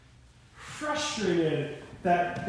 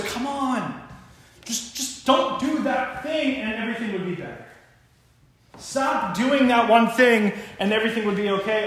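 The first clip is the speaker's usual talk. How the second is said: pleading, worn-out appeal with raised pitch; exasperated plea; 4 semitones higher than usual. Acted. God shrugging at humanity, exasperated pleading. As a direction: beg them to just stop. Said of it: "shrugs and sighs and goes".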